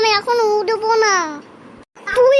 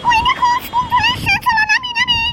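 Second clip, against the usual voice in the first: put-on much higher kid voice, eager; excited child; faster than usual. Child telling mother the school has arrived, much higher eager voice. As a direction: chirp like a small child spotting the school.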